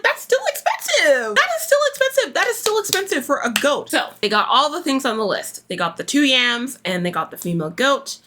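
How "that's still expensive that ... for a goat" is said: exasperated. Retold or imitated. Inner thought about price.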